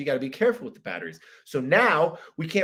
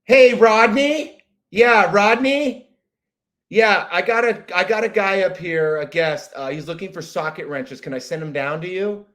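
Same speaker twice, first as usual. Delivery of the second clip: store clerk calling; 3 semitones higher, 6 dB louder than usual. Acted. Clerk paging Rodney to help a customer, calling out. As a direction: call out to a coworker down the aisle.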